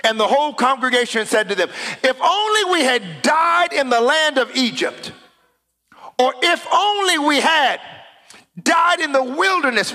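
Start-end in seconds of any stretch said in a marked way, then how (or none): 2.0-9.9 higher, whiny lament of the grumbling crowd; hammed-up wail of regret; mock whining complaint. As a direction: mimic the people moaning to go back. Congregation's complaint voiced by preacher.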